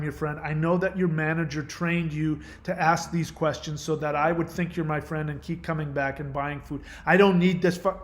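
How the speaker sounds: mildly heated imagined rant; acted irritation. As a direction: pretend fed-up customer outburst. Imagined outburst at cashier.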